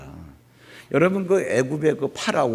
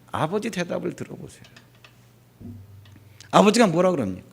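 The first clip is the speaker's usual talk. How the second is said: ordinary talk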